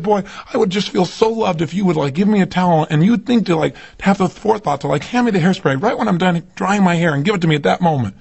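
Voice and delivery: imitating his wife. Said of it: "she said".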